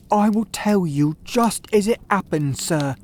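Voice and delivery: a frightened thief starting his confession; nervous Ryder. A narrator's reading. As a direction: tell it quickly, still shaken.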